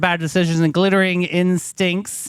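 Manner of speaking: dramatic show intro; grand segment announcement; announcer intro. Acted.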